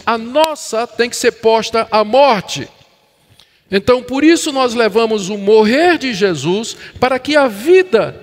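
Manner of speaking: emphatic, measured sermon delivery; preaching. Real, not acted. Pastor to congregation on Christ's life in believers, preaching. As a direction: preach it with firm stresses on key words.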